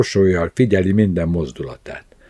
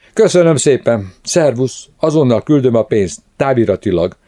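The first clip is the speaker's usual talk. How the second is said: high, hurried thanks; flustered, pitched-up rush to get away; breathless gabble; 5 semitones higher, 3 dB louder than usual. A narrator's reading. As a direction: rattle it off as if running out of breath. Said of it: "hadarta elfúló lélegzettel".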